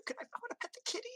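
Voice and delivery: high, breathless delight at the kitty; excited gush. Acted. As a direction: rush it out, thrilled to see a kitty. Excited NPC sees kitty.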